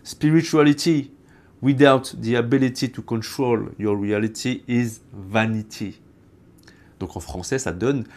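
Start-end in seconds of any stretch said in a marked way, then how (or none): 0.0-6.0 deliberate French-accented English; quoted English line, French accent. Shown as a demonstration. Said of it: "je te l'ai dit en anglais".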